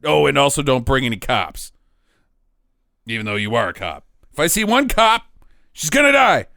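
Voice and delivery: low villain voice. Retold or imitated.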